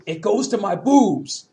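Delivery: slow, drawn-out mock-drunk repeat; stubborn tipsy whine, imitated; insistent drunk woman. Drunk woman repeats her demand.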